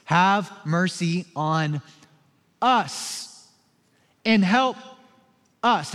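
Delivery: slow, drawn-out plea; pleading cry, each word stretched; desperate cry for help. Retold or imitated. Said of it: "he cries out".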